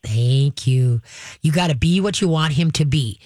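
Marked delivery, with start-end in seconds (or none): 0.0-1.0 calm, steady "Thank you"; calm praise. Shown as a demonstration. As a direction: praise the dog calmly. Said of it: "You're gonna calmly go".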